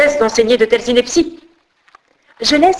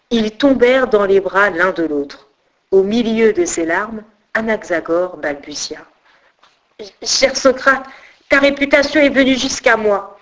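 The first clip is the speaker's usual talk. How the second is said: steady storyteller's read with voiced characters; story narration. A narrator's reading. Storyteller reading a tale of Anaxagore aloud to listeners. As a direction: tell the old legend to listeners.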